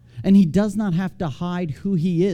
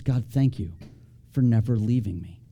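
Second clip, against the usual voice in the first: peaceful thanks; 5 semitones lower than usual. Acted. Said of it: "it's a declaration of peace".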